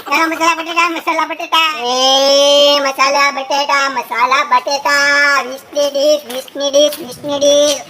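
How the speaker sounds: drawn-out street vendor cry; potato vendor calling out wares to passers-by, stretched hawker cry. Acted. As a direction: call to passing customers like a market seller.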